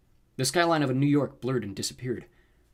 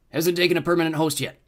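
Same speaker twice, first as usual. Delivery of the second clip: higher, louder scolding monster; chiding rooster creature; 6 semitones higher, 7 dB louder than usual. A narrator's reading. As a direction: chide your sidekick, loud and high. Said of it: "the rooster-footed guy chided".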